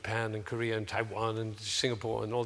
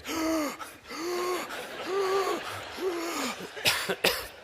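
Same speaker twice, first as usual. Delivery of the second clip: despairing gasp. Shown as a demonstration. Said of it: "walking around ... like this".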